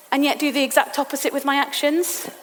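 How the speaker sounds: ordinary talk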